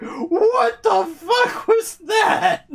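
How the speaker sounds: slow, high, laughing disbelief; stunned squeal through laughter; laughing shocked. Retold or imitated. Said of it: "And now she's like".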